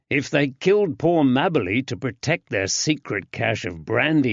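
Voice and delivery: a lightly voiced stubborn London constable; Woods the constable.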